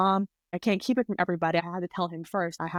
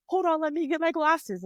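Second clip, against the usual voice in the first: higher, flustered mom asking for a moment; a hint of a fussing mother hunting her glasses; 9 semitones higher than usual. Mom on FaceTime looking for her glasses, higher flustered voice.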